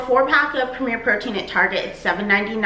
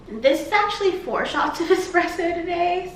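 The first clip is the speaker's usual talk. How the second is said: laughing; 7 semitones higher than usual. Real, not acted. Confessing a fourth espresso shot.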